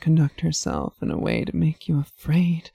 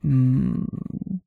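purring hum. Acted. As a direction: purr the hum contentedly. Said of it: "She purrs".

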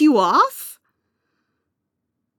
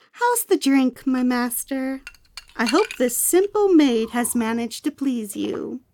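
obedient maid voice. Acted. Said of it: "I mean".

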